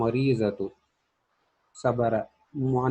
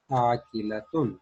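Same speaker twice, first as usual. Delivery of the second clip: slow answer; much slower than usual. Shown as a demonstration. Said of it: "तो हम कहेंगे".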